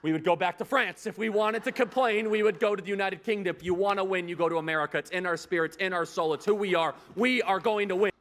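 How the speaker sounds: stirring wartime address to a crowd; rally the crowd with pride and fire; rousing speech. Acted.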